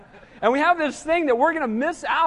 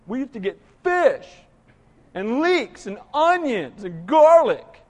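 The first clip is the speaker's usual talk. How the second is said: mock weepy nostalgia. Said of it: "They started crying".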